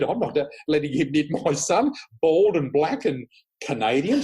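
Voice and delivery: mock-indignant, laughing through it. She mocks the reading, laughing.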